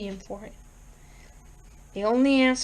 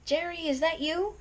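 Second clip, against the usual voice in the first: high, soft, eerie voice from the dark; ghostly bell-like call; 6 semitones higher, 5 dB quieter than usual. A narrator's reading. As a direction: call sweetly like a lost ghost. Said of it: "like little tinkling silver bells".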